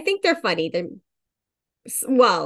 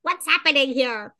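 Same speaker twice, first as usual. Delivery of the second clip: shocked panic; 12 semitones higher, 3 dB louder than usual. Retold or imitated. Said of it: "And I was like".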